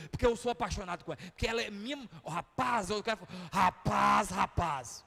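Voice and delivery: gritando, mais alto e agudo, ameaçando o rival; ameaça exaltada ao telefone. Retold or imitated. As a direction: desafia o outro como quem chama pra briga. Vizinho apaixonado ameaça ao telefone. (vizinho apaixonado gritando ao telefone com o suposto rival, furioso)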